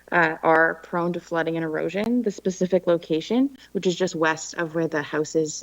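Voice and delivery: speaking through a face mask; muffled by mask. Real, not acted. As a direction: voice dampened behind a mask. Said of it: "the muffled, uh, mask".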